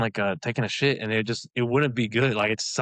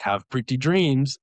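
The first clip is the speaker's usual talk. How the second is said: put-on slow, careful English with a Spanish accent, a bit higher and louder; bad English accent; 4 semitones higher, 4 dB louder, slower than usual. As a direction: imitate a doctor's clumsy English. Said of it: "terrible English accent".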